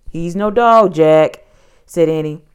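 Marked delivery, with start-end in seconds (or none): 0.1-1.4 loud, indignant correction; protesting. A narrator's reading. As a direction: object forcefully to a silly idea. Annie protests to Jack.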